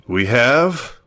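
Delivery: grave, dramatic detective reveal; a hint of a noir detective; detective revealing the culprit. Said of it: "Some serious detective voice".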